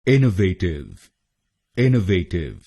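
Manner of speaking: इनोवेटिव with the weight on इन; stress on first syllable. Shown as a demonstration. Teacher shows stress on इन in इनोवेटिव. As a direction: lean on इन, keep the rest light. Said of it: "पर जोर डालेंगे".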